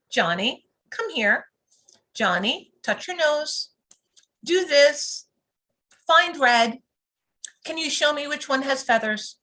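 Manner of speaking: even, neutral instruction voice; calm neutral directive. Shown as a demonstration. Teacher showing parents the calm voice for giving a directive. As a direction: give the child a clear, calm direction. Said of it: "when I give a directive, it's in a very calm, neutral voice".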